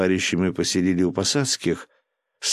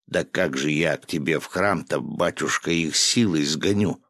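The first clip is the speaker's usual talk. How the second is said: usual speaking voice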